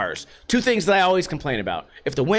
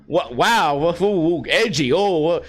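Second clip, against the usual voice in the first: sarcastic awe; 3 semitones lower than usual. Acted. Sarcastic mock awe at drivers.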